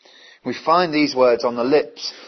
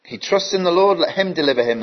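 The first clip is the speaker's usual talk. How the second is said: mocking; 5 semitones higher, faster than usual. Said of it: "See the mockery of verse eight?".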